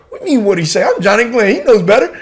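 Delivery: mock indignation, pitch climbing high; cocky comeback. Soldier bragging to his team sergeant, cocky and indignant.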